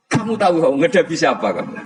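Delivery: high, loud snapping challenge; shrill-free loud high rebuke, laughing through it; Umar snapping. Acted. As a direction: bark it at the angel like a proud fighter. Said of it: "Umar ngewatek".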